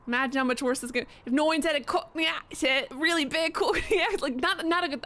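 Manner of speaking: a deliberately terrible Cockney accent, barely put on; lightly mangled Cockney on purpose; bad Cockney accent. Streamer mocks a Cockney accent, badly. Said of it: "I'm purposely trying to do the worst Cockney accent".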